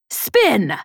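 name blared out over the comm; blaring call. A narrator's reading. Peg calls the pilot over the comm, blaring. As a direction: blare it out, falling at the end. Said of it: "Peg's voice blared into the cockpit".

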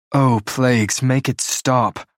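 drawn-out exasperated whine; whiny. Acted. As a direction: whine like a bored teen. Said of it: "Blair whines".

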